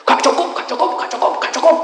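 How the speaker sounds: high loud repeated protest; spirits complaining. Retold or imitated. Spirits find the coffin too small, high loud. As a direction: shout it won't fit.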